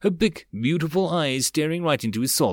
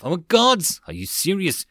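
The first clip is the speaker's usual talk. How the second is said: laughing disbelief; 6 semitones higher, 3 dB louder than usual. Acted. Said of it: "he suddenly started to laugh".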